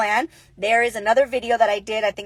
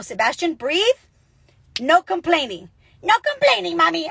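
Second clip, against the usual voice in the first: coaching her son; 5 semitones higher than usual. Retold or imitated. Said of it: "I go".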